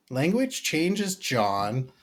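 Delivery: high, slow scolding wife; lightly imitating a scolding wife. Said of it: "my wife calls me an old fogey".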